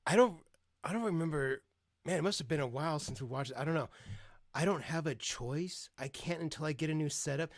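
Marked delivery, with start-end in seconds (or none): 4.5-7.5 mocking whiny son. Streamer mocks the son's excuse to his mom, lightly whiny. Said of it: "That's him trying to guilt her".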